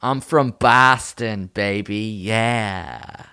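slow, halting Boston accent; rough Boston accent, stretched out; attempted Boston accent. Shown as a demonstration. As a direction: have a tentative go at Boston. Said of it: "Boston accent".

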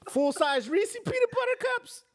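high laughing, incredulous; laughing disbelief. Real, not acted. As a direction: squeal it out laughing.

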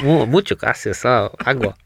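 put-on hesitant, jokey Spanish accent; playful halting attempt at Spanish; mock Spanish accent. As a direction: fumble through bad cornerman Spanish. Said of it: "what was your Spanish accent like".

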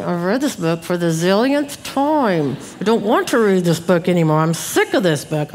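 mock muttered complaint; mildly exasperated, griping to oneself; under-the-breath grumbling. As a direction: act out a fed-up parent's grumble. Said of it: "And under my breath, I'm saying".

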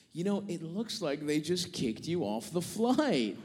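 slow, casual delivery of bad news; fun little tidbit. Airline trainee telling passenger he's bumped, as idle trivia. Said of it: "Like she's sharing a fun little tidbit".

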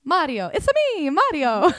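exuberant, high-pitched video game catchphrase; big, loud cartoon character impression; Mario. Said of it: "He's gonna be Mario".

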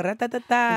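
light mock "ra-ta-ta-ta", quick and clipped; meme gunfire. Co-host quoting a meme about the ghetto, playfully. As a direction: rattle it off like the meme. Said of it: "That meme".

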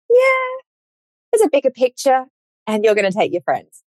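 knowing cosmic voice. Retold or imitated. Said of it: "life God is like".

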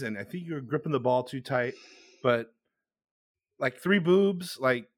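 put-on Spanish accent. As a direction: gently coach Picasso in a lightly put-on Spanish accent. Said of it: "my Spanish accent is a little off tonight".

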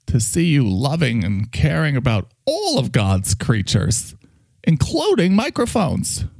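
gushing, theatrical camp character; Mike. Acted. Microphone praising his friend's new tolerance, camp and gushing. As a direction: marvel grandly with a gay-accented lilt.

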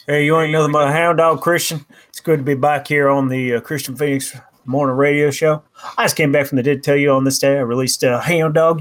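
lightly voiced croon in a famous singer's style; a hint of the singer, laid-back; impression of a singer. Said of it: "impression ready because of a singer"

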